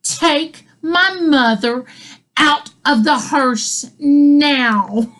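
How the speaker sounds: slow, tense retold demand through gritted teeth; measured mock exasperation, every word stretched; gritted-out order. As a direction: imitate a mother at the end of her rope, word by word. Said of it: "grits out".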